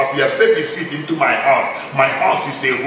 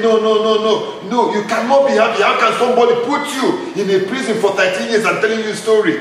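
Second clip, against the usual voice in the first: retold protest; 5 semitones higher than usual. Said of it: "Temitope said".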